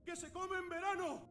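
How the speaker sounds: very high, squeaky cartoon voice; high-pitched riddle voice; squeaky clue voice. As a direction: chirp out the clue like a toy. Game voice gives fruit clue.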